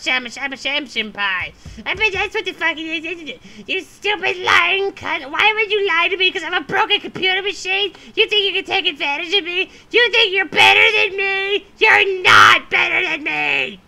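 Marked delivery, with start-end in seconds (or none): 3.7-13.8 mock angry rant. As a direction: lay it on, rising to a yell at the end. Caller ranting at tech support.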